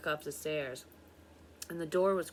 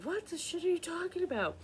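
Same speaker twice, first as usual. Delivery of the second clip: much higher incredulous retort; retold disbelief, pitched way up; 13 semitones higher than usual.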